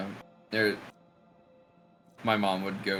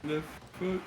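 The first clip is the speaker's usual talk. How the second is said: mock narrator; 6 semitones higher than usual.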